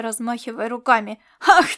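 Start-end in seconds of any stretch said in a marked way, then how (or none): 1.4-1.7 furious outburst. Acted. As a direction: spit the insult out, slowing on the name-calling. Laszlo rages at the cat.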